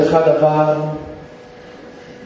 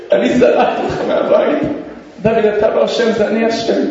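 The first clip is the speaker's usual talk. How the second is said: remorseful. Retold or imitated. Father taking blame before his son, remorseful. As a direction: voice breaking in confession.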